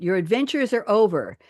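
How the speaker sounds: lightly attempted British accent; a hint of a British grande dame accent; attempted Maggie Smith accent. Host quoting Granny Wendy to her guests, lightly attempted British accent. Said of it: "I can't do a Maggie Smith accent".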